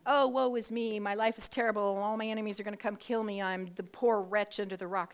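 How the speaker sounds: loud, hammed-up woe-is-me wail; lamenting David. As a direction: overplay the poor wretch's complaint, starting high and easing down. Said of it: "a lot of times David starts out".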